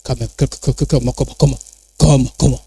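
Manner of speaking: flustered objector. Retold or imitated. Church member stammering a defence of his church, flustered mumble. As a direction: sputter like someone caught off guard. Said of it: "certains vont dire".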